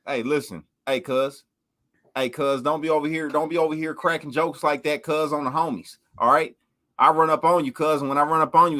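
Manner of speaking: lightly put-on Compton gangster talk; hint of a Crip threatening a rival. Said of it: "sound like you're a mix between Crip and country".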